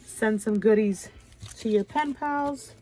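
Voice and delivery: talking with a blocked nose; stuffed up from a cold; stuffy nose. Real, not acted. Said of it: "I don't know why I sound super stuffy".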